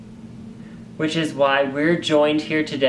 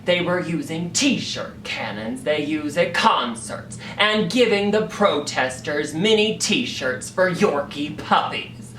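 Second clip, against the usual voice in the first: usual speaking voice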